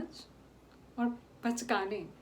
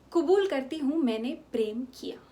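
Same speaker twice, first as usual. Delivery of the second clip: defiant confession; 2 semitones higher, 6 dB louder than usual. Acted. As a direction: own it in front of everyone.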